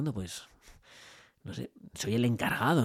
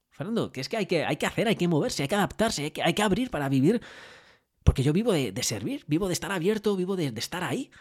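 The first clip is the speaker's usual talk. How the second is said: higher and pressing, hammering the point; urging; 5 semitones higher than usual. Retold or imitated. Owner urging Fernando that you must adapt, emphatic. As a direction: urge him on, insistent and rising.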